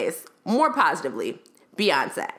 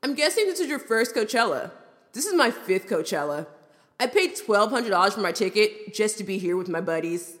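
lightly voiced frat bro; a hint of a bragging dude-bro. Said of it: "Him, in a frat bro voice".

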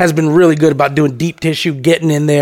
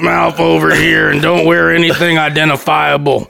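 creepy; 3 semitones lower than usual. Retold or imitated. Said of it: "Fucking creepy fuck".

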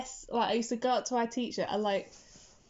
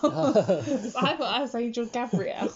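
laughing; 3 semitones higher, 5 dB louder than usual. Real, not acted. Laughing at her childhood mistake.

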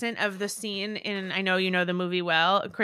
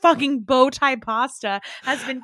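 mock polite critique; 4 semitones higher, 4 dB louder than usual. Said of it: "Kristen just offers up".

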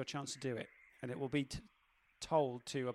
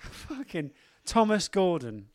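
frustrated groan; 7 dB louder, much slower than usual. Real, not acted. Frustrated at the question.

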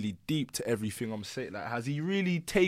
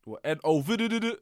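producer tag; 4 semitones higher than usual. Shown as a demonstration. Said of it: "that's me".

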